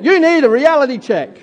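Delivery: sassy, pointed reality check; with attitude. Shown as a demonstration. Pastor urging the congregation, said with attitude. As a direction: say it like they really need it. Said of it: "say it with a bit of attitude".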